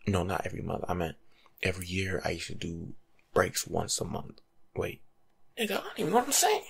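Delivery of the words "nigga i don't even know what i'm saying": much higher, fast flustered outburst. Real, not acted. Host tripping over his own words, flustered and higher. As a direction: blurt it out, catching yourself.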